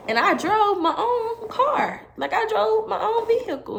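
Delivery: high, laughing disbelief. Real, not acted. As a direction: laugh through the words. Laughing while retelling her exit.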